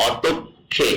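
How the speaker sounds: "অতক্ষে" with g turned into aspirated kh; aspirated Korean k. Shown as a demonstration. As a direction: say "অতক্ষে" in parts, a puff on "ক্ষে". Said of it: "গিউক থাকলে খিউক হয়ে যাচ্ছে". ("অতক্ষে" খ ধ্বনিতে শ্বাস দিয়ে)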